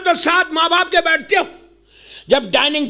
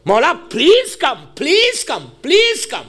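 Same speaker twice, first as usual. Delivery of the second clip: slow, lower, earnest plea; pleading call to the Imam; 4 semitones lower, much slower than usual. Acted. Preacher calling his Mola, slow earnest plea. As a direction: call out to your Mola with longing. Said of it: "مجھے right ہے یہ کہنے کی".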